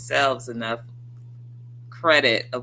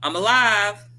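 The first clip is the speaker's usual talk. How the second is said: relieved joy; 2 semitones higher, 5 dB louder than usual. Retold or imitated.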